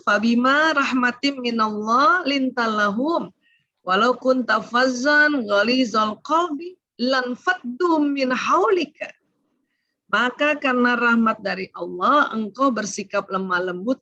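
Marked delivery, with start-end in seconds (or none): 0.1-9.1 slow, measured chanting of the verse; Arabic verse recited slowly; Quran recitation. Acted. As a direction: recite it slowly, each word given weight.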